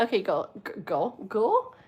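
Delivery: put-on "go" for "girl", the r dropped like a small child; can't say r. Shown as a demonstration. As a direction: say "go, go" the way a little kid says "girl". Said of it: "I used to say it like that when I was little".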